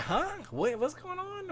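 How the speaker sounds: very high, bewildered questioning; mock confusion. Streamer acting out American reaction to politics, high-pitched mock confusion. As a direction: squeal it like someone totally lost. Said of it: "Ours is more like confusion".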